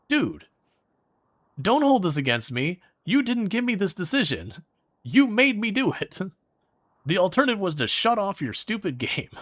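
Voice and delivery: indignant protest. Retold or imitated. Player arguing back at the preachy game, indignant exasperation. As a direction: push back hard, you forced me. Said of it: "And you're like".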